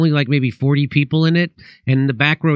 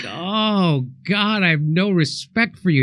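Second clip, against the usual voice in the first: higher-pitched retold dismay; mock disillusionment; 4 semitones higher, slower than usual. Comic to magician after hearing the secret, mock disillusioned. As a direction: groan out the disappointment, lightly acted.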